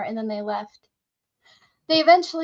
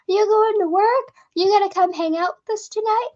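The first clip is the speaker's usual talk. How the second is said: a touch of excited calling, higher and louder; eager call; 8 semitones higher, 5 dB louder than usual. Retold or imitated. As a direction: call out the invite like a friendly valet, slowing down. Valet calls out friendly invite.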